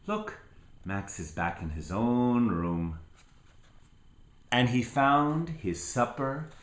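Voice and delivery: gentle storybook narration with lilting rises; reading to children. Acted. Grandparent reading Where the Wild Things Are to a child, storybook voice. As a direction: read it like a bedtime story for a little one. Reads picture book to child.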